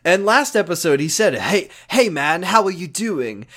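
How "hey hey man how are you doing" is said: slow, overfriendly RA singsong; chummy RA. Retold or imitated. Cassidy offering Mark fries, chummy RA. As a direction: draw it out like a too-friendly dorm advisor. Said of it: "talks to Mark like he's his fucking R A".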